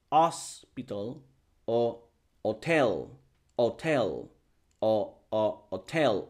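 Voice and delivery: "hotel" and "hospital" said slowly with no h sound, as otel and ospital; silent h. Retold or imitated. Teacher imitating speakers who drop the h. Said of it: "que deciden decir".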